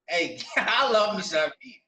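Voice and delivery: slow, savoring it with a laugh; drawn-out amused repeat; relishing, laughing. Real, not acted. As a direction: laugh and stretch out the love of beef.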